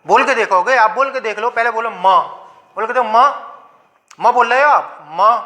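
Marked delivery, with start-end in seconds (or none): 1.9-2.2 "मां" as an open syllable with an audible short a; inherent vowel sounded. Shown as a demonstration. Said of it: "आ की ध्वनि निकल रही है". 5.1-5.3 "मां" as an open syllable with an audible short a; isolated teaching demo of "मां", vowel audible; inherent vowel sounded. Shown as a demonstration. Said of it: "आ की ध्वनि निकल रही है".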